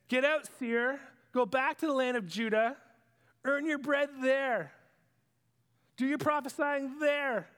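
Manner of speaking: stern dismissal. Acted. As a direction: throw the prophet out. Amaziah ordering Amos out.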